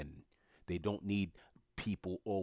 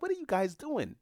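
very high, loud mock alarm; high-pitched retold outcry; jarred cousin; 14 semitones higher, 5 dB louder than usual. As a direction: imitate an appalled cousin demanding an explanation. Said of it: "my cousin was jarred by it".

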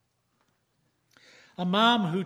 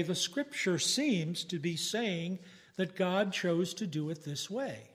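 gracious; 3 dB quieter than usual. Shown as a demonstration. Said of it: "A gracious speaker might say".

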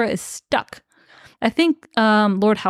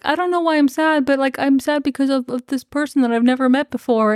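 higher, plaintive put-on voice; lightly hammed-up sadness; mock sad lament; 5 semitones higher than usual. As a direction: whine about a mysterious sorrow. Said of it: "is like".

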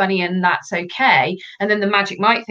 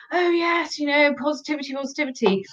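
higher, airy mock cheer; mocking gushing; 6 semitones higher, 4 dB quieter than usual. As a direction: parody a preachy positivity fan. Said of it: "me going".

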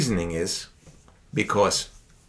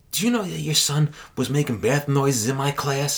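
laughing; 6 semitones higher than usual. Real, not acted. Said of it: "laughs while quoting teacher".

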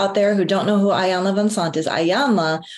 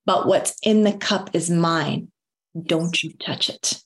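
firm boundary; 2 semitones lower, slower than usual. Retold or imitated. Quoting speaker's firm boundary line.

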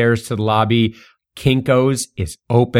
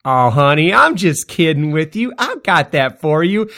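teasing; 4 semitones higher than usual. Retold or imitated. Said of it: "she smirks and she goes".

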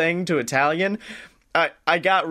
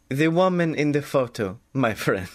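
mock Watto; 4 semitones lower than usual. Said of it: "he's now going full Watto".

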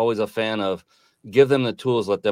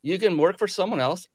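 higher, open, no pressure; a father to his kids, lightly voiced and higher; telling his kids; 9 semitones higher than usual. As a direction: lay out their options gently, pitched up. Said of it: "I told my kids".

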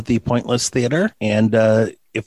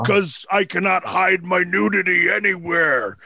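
put-on Tesla accent; 3 semitones higher than usual. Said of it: "my spot-on Nikolai Tesla accent".

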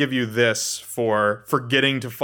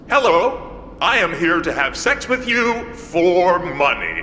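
robotic Rodrigo; 5 semitones higher, slower than usual. Acted. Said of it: "Rodrigo goes in and goes".

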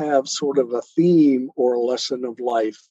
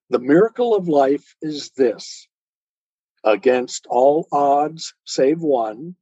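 poetry reading. Acted. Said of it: "I've got a short little poem called Miracle".

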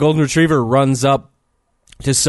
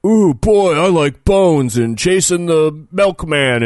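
high, excited doggy voice, slower on the second line; goofy dog voice; 3 semitones higher, slower than usual. Retold or imitated. Podcaster mimicking the dubbed dog voice, goofy. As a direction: ham up a cartoon dog's glee. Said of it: "he was saying something like".

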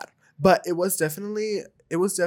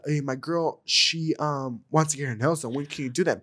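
low, softer cholo imitation; a hint of low-voiced cholo; 5 semitones lower, 6 dB quieter than usual. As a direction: lightly play the tough boyfriend, low and quiet. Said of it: "straight up cholo".

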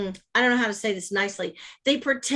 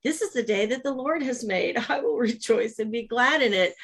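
joyful morning affirmation. Pretend. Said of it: "Or you can wake up and say".

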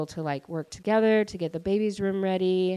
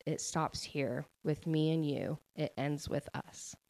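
measured narration, fading to a soft last line; solemn book reading; 4 dB quieter than usual. Acted. Reading the novel's last lines to listeners, solemn and quiet. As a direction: read aloud gently, sinking softer at the close. Reads closing passage from book.

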